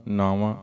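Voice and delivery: ਨਾਵਾਂ with a nasal final vowel; nasal ending. Shown as a demonstration. Teacher showing the sangat the nasal ਨਾਵਾਂ. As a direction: say ਨਾਵਾਂ through the nose at the end. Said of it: "ਨਾਸਕੀ ਉਚਾਰਨ ਹੋਏਗਾ".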